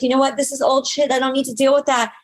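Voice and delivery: high, revved-up hype voice; pumped-up self-talk. Retold or imitated. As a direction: hype yourself up like a badass.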